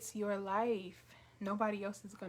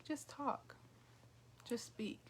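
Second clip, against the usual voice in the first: small, subtle inner voice, softly imitated; God; 9 dB quieter than usual. God nudging a reluctant speaker to talk, small subtle voice. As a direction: drop to a soft, understated prompt. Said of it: "sometimes it's so small and so subtle".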